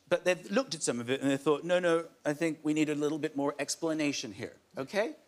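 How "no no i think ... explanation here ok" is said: put-on American accent. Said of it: "That's my American accent".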